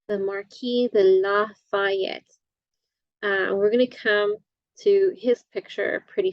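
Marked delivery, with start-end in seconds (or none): 0.1-2.3 the Marquis de Lafayette spelled out slowly for students; slow, clear repeat. Shown as a demonstration. Teacher repeats the name slowly for the class.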